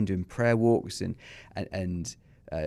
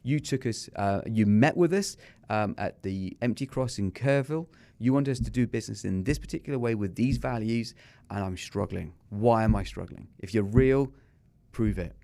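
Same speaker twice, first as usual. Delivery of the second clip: angry rant. Retold or imitated. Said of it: "I, I really ranted".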